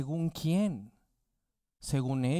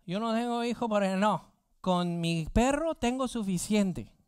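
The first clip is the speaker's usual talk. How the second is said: slightly put-on, higher-pitched objector; lightly voiced pet owner; 5 semitones higher than usual. Preacher imitating people who prefer pets to children, lightly mocking higher voice. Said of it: "muchos van a decir".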